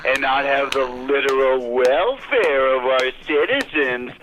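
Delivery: slow, mock-earnest sarcasm; sarcastic sing-song. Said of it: "I love being sarcastic".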